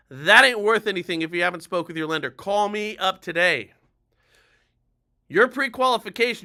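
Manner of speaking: forceful live sales warning, key words hit hard; emphatic urgency. Shown as a demonstration. Lender on a live urging buyers to call today, emphatic and urgent. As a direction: warn them urgently, stretching the punchlines. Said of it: "Do a live just like this".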